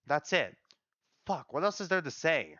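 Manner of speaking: indignant venting, pitch jumping up on the bitter points; angry. Acted. Solian venting that nobody loved him, angry. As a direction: rant in bitter frustration. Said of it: "That makes me angry".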